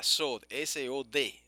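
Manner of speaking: "S O D" spelled slowly, letter by letter. Shown as a demonstration. Teacher wants students to learn the word, slow letter-by-letter "S O D". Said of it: "Quiero que se aprendan esa palabrita".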